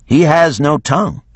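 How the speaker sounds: lightly voiced warrior woman; Geneva voiced. A narrator's reading. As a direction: Geneva speaks up for Carlotti. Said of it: "said Geneva".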